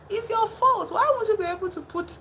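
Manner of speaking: high-pitched exasperated telling-off; mock scolding. Viewer blaming Norman for his mother, high mock scolding. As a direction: scold him in a high, incredulous voice.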